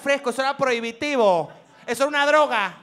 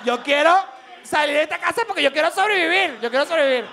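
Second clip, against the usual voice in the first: put-on desperate kid. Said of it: "uno decía".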